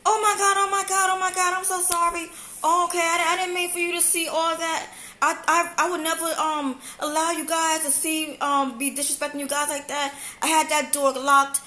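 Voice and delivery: lightly voiced embarrassed woman; flustered apology. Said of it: "apologizing woman".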